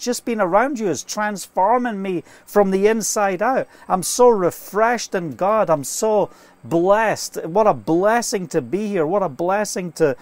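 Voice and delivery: mildly excited, grateful gushing; excited testimony. Retold or imitated. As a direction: relay his excited gratitude. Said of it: "he was so excited".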